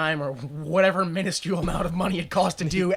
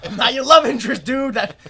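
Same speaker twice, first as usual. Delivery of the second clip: mock protest; 4 semitones higher, 4 dB louder than usual. Voicing the mannequin woman.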